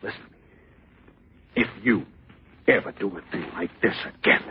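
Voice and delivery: halting threat. Acted. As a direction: measure out the threat piece by piece. Husband warns wife in quarrel.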